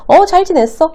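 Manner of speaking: acted-out cheerful reply; positive reply. Shown as a demonstration. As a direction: answer readily in a lifted voice. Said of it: "이렇게 얘기할 확률이".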